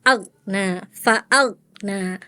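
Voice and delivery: AGNA, FA'AGNA with a stop before NA; cut-off ghain. Retold or imitated. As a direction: imitate the student chopping G in AGNA. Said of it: "Farel disaktah".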